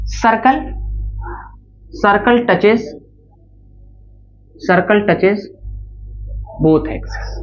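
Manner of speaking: slow dictation with long pauses; measured classroom dictation, pausing after each chunk. Real, not acted. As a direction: dictate it phrase by phrase for note-taking. Dictates a note heading.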